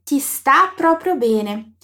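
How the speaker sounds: slow, clearly spaced words; slow model phrase. Shown as a demonstration. Teacher shows a compliment in Italian, slowly. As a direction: lay each word out for the learner. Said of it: "a gente pode dizer".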